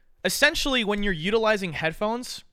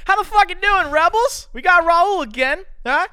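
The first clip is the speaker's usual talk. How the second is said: high, very loud hype intro; shouted show greeting; 13 semitones higher, 8 dB louder than usual. Pretend. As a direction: kick off the show at full volume.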